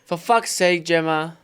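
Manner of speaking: loud, fed-up for fuck's sake; exasperated swear. Acted. Doing his own catchphrase for a listener's message tone, loudly fed up. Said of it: "Do it again clean for her".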